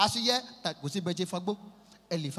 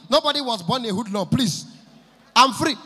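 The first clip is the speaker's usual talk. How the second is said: loud, pleading eagerness for a gig; acted loud, eager pleading; desperate insistence; 3 semitones higher, 6 dB louder than usual. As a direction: insist loudly, begging to be booked. Acting out eagerness to get booked.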